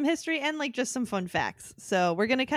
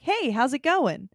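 friendly greeting; 3 semitones higher, 4 dB louder, slower than usual. Retold or imitated. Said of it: "people were like".

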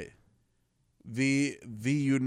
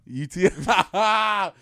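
laughing; 5 semitones higher, 5 dB louder, much slower than usual. Acted. Slow laughing repeat.

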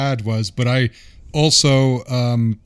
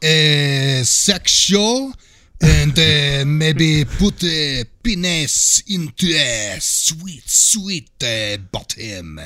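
mock French accent. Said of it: "That's pretty good".

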